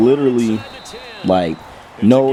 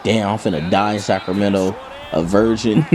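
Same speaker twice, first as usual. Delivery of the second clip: mock panic; 4 semitones lower than usual. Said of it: "I'm freaking out".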